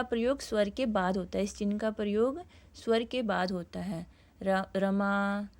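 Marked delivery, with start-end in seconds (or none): 4.4-5.5 रमा stretched very slowly, vowel held long; drawn-out call. Shown as a demonstration. Teacher calling Rama from afar as a demo. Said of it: "दूर से आवाज़ दी जा रही है".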